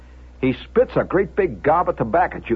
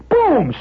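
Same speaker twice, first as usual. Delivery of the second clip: door slam imitation; 11 semitones higher, 6 dB louder than usual. Imitates door slamming open.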